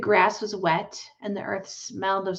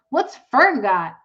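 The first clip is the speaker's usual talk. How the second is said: put-on demanding boy; 4 semitones higher, 8 dB louder, slower than usual. A narrator's reading. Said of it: "he demanded".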